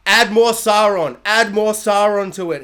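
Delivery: director's note. Retold or imitated. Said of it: "the director's just like".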